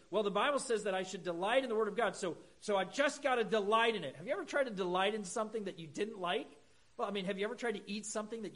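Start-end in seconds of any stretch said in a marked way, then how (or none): 0.1-4.2 mock self-talk. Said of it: "you look at that and you say".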